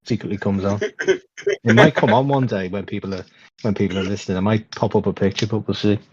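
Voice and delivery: muffled through a wrestling mask. Real, not acted. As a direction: talk muffled behind a full face mask. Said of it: "If I sound a bit muffled".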